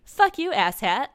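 slow, high, loud insult; acted indignant outburst; angry rebuff. A narrator's reading. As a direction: draw the insult out angrily. Character rejects advance, storms off.

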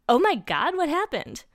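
high, loud shocked question; acted panic at a gory sight; alarmed. A narrator's reading. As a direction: cry out in alarm. Character jumps up seeing blood.

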